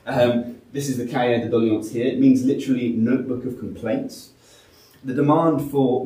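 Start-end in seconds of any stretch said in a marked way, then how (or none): 1.0-1.9 Cahier de Doléances in a French accent, kʰaɛ ðə dɔliɑns; quick French-accented Cahier de Doléances. Shown as a demonstration. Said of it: "I do apologise for my French accent".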